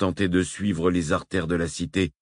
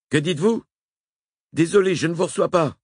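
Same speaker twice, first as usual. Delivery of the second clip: Wakefield à la radio; 11 semitones higher, 4 dB louder than usual. A narrator's reading. Wakefield over bad radio.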